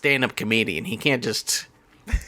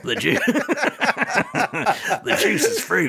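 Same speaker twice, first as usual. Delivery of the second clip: high, gravelly-free cartoon ghoul; Beetlejuice voice; 8 semitones higher than usual. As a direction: play the ghoul, pitched up. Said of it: "so you're doing better than me".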